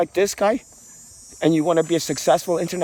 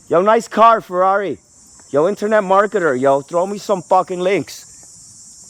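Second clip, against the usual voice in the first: mock call-out; 3 semitones higher, 4 dB louder than usual. Mock calling out to neighbor's car.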